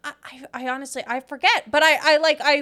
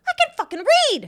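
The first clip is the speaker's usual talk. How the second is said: mock defiant; 13 semitones higher, 4 dB louder, faster than usual. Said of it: "And I'm going".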